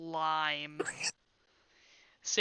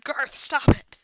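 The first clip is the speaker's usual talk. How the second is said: higher, louder acted call; companion's yell; 7 semitones higher, 8 dB louder than usual. Game master as companion calling Garth off, acted yell. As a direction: yell it as if from behind him. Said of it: "yells behind".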